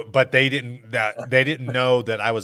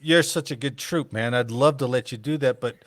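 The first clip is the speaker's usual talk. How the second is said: smug boss brushing off a request; mock commander; 4 dB louder than usual. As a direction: play the jerk commander, laughing. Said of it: "I'm your commander".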